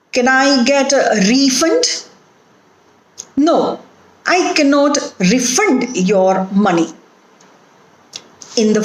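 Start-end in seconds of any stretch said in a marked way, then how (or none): 0.1-2.1 refund as RE-fund, the noun; stress on first syllable. Shown as a demonstration. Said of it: "stress is on the first syllable". 4.3-6.9 refund as re-FUND, the verb; weak re, strong FUND in refund; stress on second syllable. Shown as a demonstration. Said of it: "the stress is on the second syllable".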